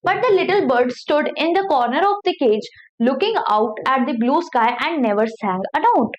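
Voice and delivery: slow, careful read-aloud of a story. Acted. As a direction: read each word slowly for learners. Reading the English story aloud. (धीमी कहानी पढ़ाई)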